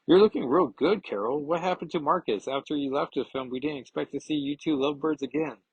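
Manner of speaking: clueless idiot. Acted. Hawkeye clumsily compliments Carol, goofy high-pitched oblivious tone. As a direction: play him as an oblivious dope. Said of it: "like an idiot".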